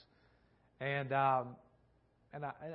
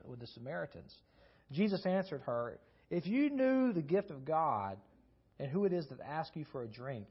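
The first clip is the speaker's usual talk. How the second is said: scripture reading; 2 semitones higher than usual. Acted. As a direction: read the passage to the congregation. Reads scripture passage aloud.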